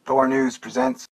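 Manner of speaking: high, slow announcer call. Acted. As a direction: boom out the show title slowly. Announcing the show title.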